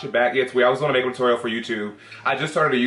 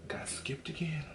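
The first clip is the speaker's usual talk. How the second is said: whispered; 3 semitones higher, 17 dB quieter, slower than usual. Real, not acted. Muttering alone on video chat.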